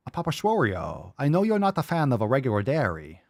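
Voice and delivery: put-on comic Asian accent; exaggerated mock Asian accent for laughs; funny Asian voice. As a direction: read it out in a jokey Asian accent. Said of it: "doing the funny Asian voice".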